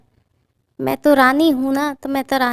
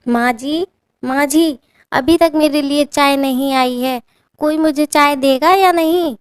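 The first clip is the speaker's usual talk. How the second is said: higher and louder, demanding bride calling out; shouting for tea; 4 semitones higher, 4 dB louder than usual. Acted. Bride calling her mother-in-law for morning tea, loud and demanding. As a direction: yell for your tea like a spoiled queen. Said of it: "जोर-जोर से चिल्लाने लगती है".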